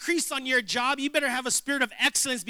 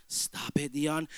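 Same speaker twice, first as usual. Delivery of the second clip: hushed, half-voiced aside to himself; muttered to himself; 7 semitones lower, 5 dB quieter, slower than usual. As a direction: scold yourself under your breath.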